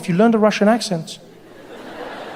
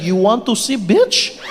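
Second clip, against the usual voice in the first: put-on Russian accent; slower than usual. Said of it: "whip out your Russian".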